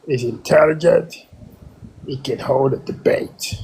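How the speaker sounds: a fake accent, held steady; trolling the room in a put-on voice. Caller trolling the room about Charlie Kirk, put-on accent. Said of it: "not with that troll voice".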